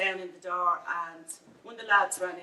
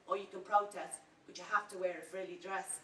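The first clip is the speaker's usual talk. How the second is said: mocking quote; 5 dB quieter than usual. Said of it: "I'm getting sick and tired of people saying".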